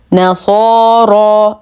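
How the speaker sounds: نصارى with emphatic ص and ر, long vowels held; heavy ر. Shown as a demonstration. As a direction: chant نصارى slowly with a full, dark ر. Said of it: "أيضًا نفخم الراء بأعلى درجات التفخيم". (تفخيم راء نصارى بأعلى درجة)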